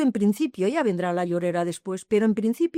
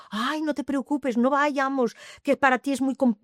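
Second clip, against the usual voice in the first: imitated tearful plea; 5 semitones higher than usual. Someone tearfully telling her not to go, imitated tearful plea. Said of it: "se me decía llorando".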